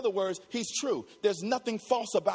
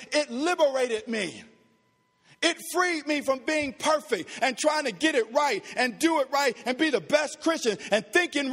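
fervent testimony; 2 semitones higher than usual. Real, not acted. Fervent testimony of being freed.

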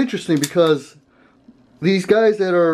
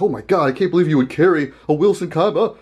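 mock aghast; faster than usual. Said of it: "these guys are, like, aghast".

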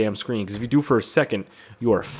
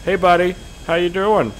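high, mock-friendly call; cheery taunt; 7 semitones higher, 4 dB louder than usual. Gamer greeting his target, high mock-friendly call. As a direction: hail the enemy like a pal. Calls to game enemy.

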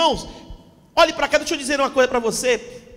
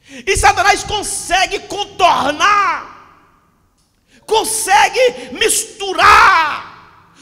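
preaching at full force; 3 semitones higher, 3 dB louder than usual. Acted. Pastor warning the church about Satan, preaching hard. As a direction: hammer each phrase home to the congregation.

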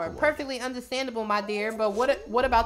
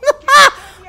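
high, loud cackling laugh; loud burst of laughter; 14 semitones higher, 16 dB louder than usual. Real, not acted. Reaction to misheard line.

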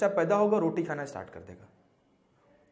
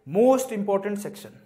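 "Most important section" stretched out very slowly and louder; slow emphatic announcement; 2 semitones higher, 6 dB louder, much slower than usual. Shown as a demonstration. Teacher to exam aspirants, announcing the key section very slowly. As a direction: draw out every word of Most important section.

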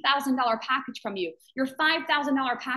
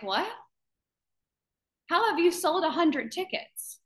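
higher-pitched incredulous question, rising at the end; astonished disbelief; 4 semitones higher than usual. Retold or imitated. Doubters react to a hundred tickets sold, mock astonishment. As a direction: imitate doubters taken aback, voice lifting.

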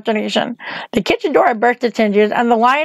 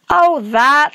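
put-on a light girlish pitch, lifted higher; young Dorothy; 4 semitones higher than usual. Dorothy answers the witch on the tower, higher girlish voice. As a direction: voice the girl a notch up.

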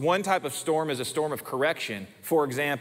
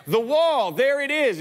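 put-on high, louder little girl pointing; child's alarmed call; 10 semitones higher, 5 dB louder than usual. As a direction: play the frightened daughter, up high and loud. Daughter pointing at spider.

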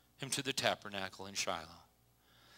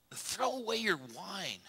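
stern priest; 9 semitones higher than usual. Acted. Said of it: "he demanded".

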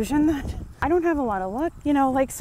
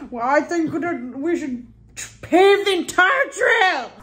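mock worker pondering; 6 semitones higher, slower than usual. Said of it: "they're like".

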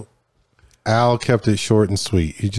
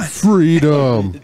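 heroic shout; 3 semitones higher than usual. Retold or imitated. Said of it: "they didn't do it right".

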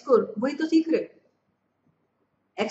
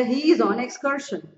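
slow teaching read; much slower than usual. Shown as a demonstration. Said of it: "excursion मतलब picnic".

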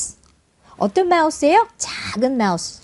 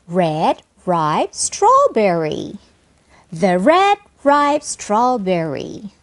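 slow, word-by-word model reading; deliberate teacher's pronunciation for learners; phrase-building demo; 3 semitones lower, much slower than usual. Shown as a demonstration. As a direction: build the phrase slowly, each word distinct. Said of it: "이렇게 커져가는 것으로 연습하면은".

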